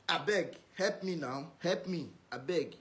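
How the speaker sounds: soft, slow mock plea; mimicked begging. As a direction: imitate someone begging for help. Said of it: "As you don beg reach".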